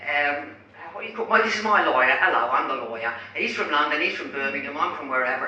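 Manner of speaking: loud mock British accent; hammed-up British spokesman accent; imitated British accent. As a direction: introduce the team in a put-on British accent. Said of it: "Maybe sounding like this".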